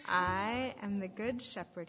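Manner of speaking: slow, weighty scripture quote; measured, emphatic proclamation; solemn declaration. Retold or imitated. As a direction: declare it deliberately, leaning on I. Quotes Jesus's words solemnly.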